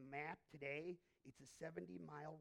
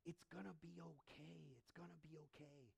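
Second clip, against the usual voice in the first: hushed, gentle comfort; soft reassuring whisper; 9 dB quieter than usual. Acted. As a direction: soothe every heart quietly.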